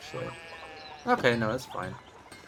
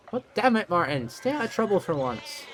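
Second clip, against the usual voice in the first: scolding aunt; 4 semitones higher than usual. Acted. Aunt scolding her nephew.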